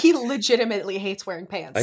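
amused announcement through laughter; laughing, half losing it; laughing tease. Real, not acted. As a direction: break into laughs as you say it. Teasing friend, cracking up.

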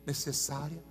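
low, soft, measured preacher; solemn preaching. Real, not acted. Preacher telling the church the Bible is God's voice, solemn preaching. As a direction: let each phrase settle quietly, with pauses. Solemn hushed part of sermon.

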